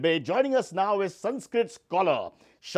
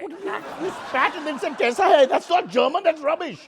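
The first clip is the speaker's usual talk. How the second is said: mocking disbelief; 7 semitones higher, 4 dB louder than usual. Host mocking fake German.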